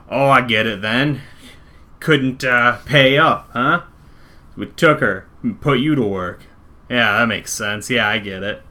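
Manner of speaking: loud, blustering thug losing his footing; failed intimidation. Acted. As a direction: try to sound tough and not quite manage it. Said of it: "intimidating. He's just failing".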